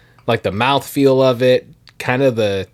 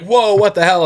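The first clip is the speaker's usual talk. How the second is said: higher-pitched, mildly startled mock reaction; retold shock; 7 semitones higher than usual. Imagined drinker reacting to a first bourbon sip, mock shock. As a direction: imitate a drinker taken aback. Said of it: "you could be like".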